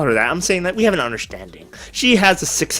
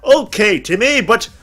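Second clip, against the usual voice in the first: mock wise father. Father advising son on an old game, mock-solemn. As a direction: play a pompous dad, drawing out the words. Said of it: "I'll say".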